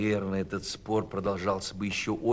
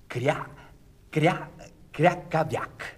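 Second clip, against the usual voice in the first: higher duck voice, drawing out the quacks; quacking duckling; 6 semitones higher, slower than usual. Acted. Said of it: "возразил утёнок Крячик". (утиное кряканье)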